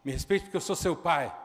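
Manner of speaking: repeated loud fatherly rebuke; retold loud demand for respect; loud stern command again. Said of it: "vou falar alto".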